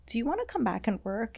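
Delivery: whispered, soft retold question; lightly voiced manager, whispered; hushed retold offer.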